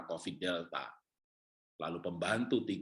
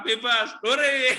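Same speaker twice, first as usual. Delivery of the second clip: high, loud, drawn-out hooray; mock cheer; 14 semitones higher, 12 dB louder, much slower than usual. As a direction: cheer it out with a laugh. Acted reply cheering a free theme.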